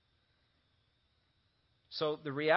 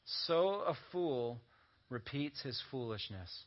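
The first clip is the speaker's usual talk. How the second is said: solemn scripture reading; 3 semitones lower, 6 dB quieter, slower than usual. Acted. Reading Proverbs verse slowly.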